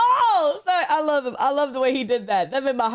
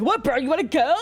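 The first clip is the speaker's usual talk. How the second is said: mock tough guy; 4 semitones higher than usual. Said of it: "he would start being like".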